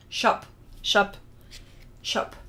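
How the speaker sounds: short, separated tries at 'shup'; Dutch word attempt. Shown as a demonstration. Host checking how they say it, trying short 'shup'. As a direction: practise 'shup' as Dutch for sheep. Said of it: "is that how they say it".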